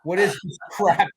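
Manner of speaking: half-hearted yell of protest; retold yell. Son protests to the priest at his mother's deathbed, mock yelling. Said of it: "I yelled".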